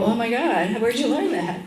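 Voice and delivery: mock wow; impressed doctors gushing; amazed doctors. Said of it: "O B G Y Ns at the hospitals here go".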